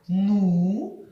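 ну: hard н, round у. Shown as a demonstration. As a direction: say ну firmly. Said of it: "Твердо ми скажемо".

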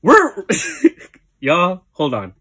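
breathless after dancing; catching her breath. Real, not acted. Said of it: "Let me breathe first".

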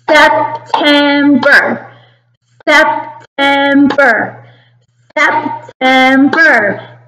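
SEP-TEM-BER, slow and even, each syllable split; clapped syllables. Shown as a demonstration. Teacher claps September with kindergarten, syllable by syllable. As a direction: clap out September, one beat per syllable. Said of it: "Can you say September and clap with me".

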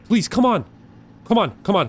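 high-pitched begging, easing down; urgent pleading. Real, not acted. Player urging the game along, urgent pleading. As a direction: beg it to hurry.

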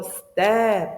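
«степ» drawn out on a clear е; stressed, clear е. Shown as a demonstration. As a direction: stretch the е in «степ» so it is unmistakable. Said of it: "Тут ми чітко чуємо".

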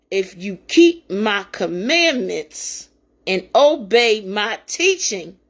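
slow, measured Bible reading; scripture reading. Acted. A preacher reading Scripture to her listeners, slow and reverent. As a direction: read the verses with reverent weight.

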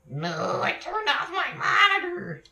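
sudden high, loud yelp of alarm; surprised shout. Real, not acted. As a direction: blurt it out in shock, high and loud. Realises monitor was off.

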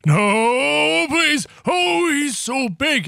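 high, loud hammed-up pleading; playful panic. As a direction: beg in mock terror. Menaced by Mister Stinky.

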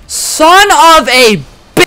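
loud, high, dragged-out angry curse; furious cry. Real, not acted. Streamer dying in the level, loud dragged-out curse. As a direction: stretch it out in rage, cut off. Dies and must redo level.

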